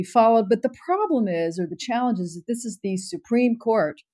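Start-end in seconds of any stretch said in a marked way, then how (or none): 2.5-4.0 "Supreme" given pointed emphasis, slightly lifted; stress on Supreme. Real, not acted. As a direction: lean on the word "Supreme". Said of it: "emphasis on Supreme".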